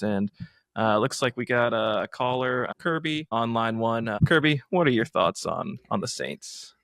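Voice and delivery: lightly put-on sports radio presenter; host a local call-in show, measured opening. Host taking caller Kirby's draft thoughts, radio-host voice.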